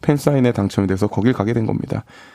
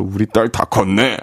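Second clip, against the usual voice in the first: laughing proud dad, slow; proud tearful parent; slower than usual. Retold or imitated. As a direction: savour 우리 딸 다 컸네 slowly. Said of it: "해장국 끓여주면서".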